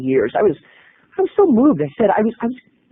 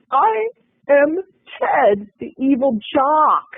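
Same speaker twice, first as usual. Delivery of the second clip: proud announcement; 9 semitones higher, much slower than usual. Retold or imitated. Announcing his role grandly.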